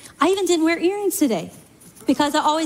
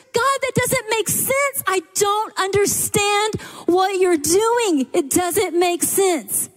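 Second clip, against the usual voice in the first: anguished prayer; 5 semitones higher, slower than usual. Retold or imitated. Voicing a believer's bewildered prayer.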